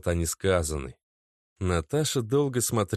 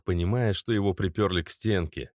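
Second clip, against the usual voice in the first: usual speaking voice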